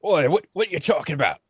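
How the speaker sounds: a quick, puzzled challenge; lightly voiced bandit. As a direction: snap back confused and fast.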